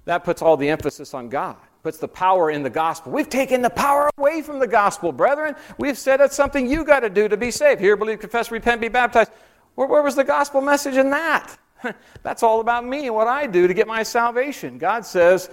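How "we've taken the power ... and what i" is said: much higher, fervent protest to the brethren; impassioned preaching. Acted. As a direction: preach it hard, pleading with the brethren. Indignant plea to the brethren.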